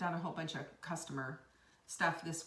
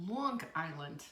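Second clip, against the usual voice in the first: Long Island accent; 4 semitones lower than usual. Shown as a demonstration. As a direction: put on a Long Island accent for the place name. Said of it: "I have a pretty good Long Island accent".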